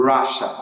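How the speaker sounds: Russia as "RUSH-uh", two syllables; stress on first syllable. Shown as a demonstration. Teacher modelling correct Russia, first-syllable stress. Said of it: "First syllable is stressed".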